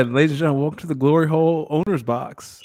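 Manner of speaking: hammed-up emcee on the edge of laughter; mock announcer. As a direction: announce it like a joke welcome to the crowd. Mock arena announcement of the joke.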